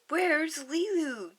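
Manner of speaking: high, loud and slow; desperate demand. Acted. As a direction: plead and demand at once. Nani demands from aliens.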